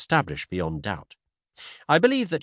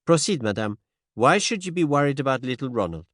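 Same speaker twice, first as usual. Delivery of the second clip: higher, precise Belgian detective; gentle French-tinged Poirot; 4 semitones higher than usual. Acted. Poirot voiced.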